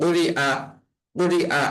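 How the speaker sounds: "আ" in "উরি আ" struck firmly as a hamza. Shown as a demonstration. Teacher demonstrating the word for learners, "আ" firmly struck. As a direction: break before "আ" and hit it hard, with no glide. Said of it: "এখানেও এরকম শক্ত করে আদায় হবে".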